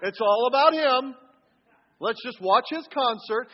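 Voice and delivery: slow, dismissive mock sneer with a scoff; hammed-up eye-roll at a showoff. Sneering at the worship leader in a bad attitude, slow and scornful. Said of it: "Or in a bad attitude".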